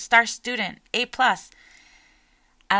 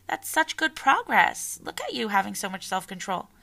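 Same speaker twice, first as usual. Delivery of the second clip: encouraging praise. Retold or imitated. Parent praising child in story.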